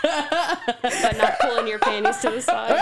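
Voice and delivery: laughing. Real, not acted. Giggly teasing banter.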